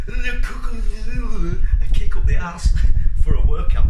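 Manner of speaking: laughing. Real, not acted. Laughing at his own slip.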